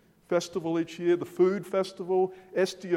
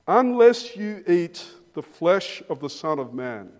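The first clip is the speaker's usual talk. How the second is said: emphatic scripture reading; 6 dB louder than usual. Acted. Preacher reading Jesus' words.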